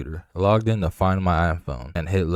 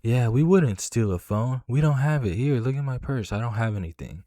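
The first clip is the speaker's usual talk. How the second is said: a higher, mock-innocent mom voice, insisting; lightly voiced mom pleading innocence, pitched up; imitating the mom; 5 semitones higher than usual. Teller imitates the thief's mom denying the theft, mock-innocent and higher. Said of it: "The mom jumps in and is like".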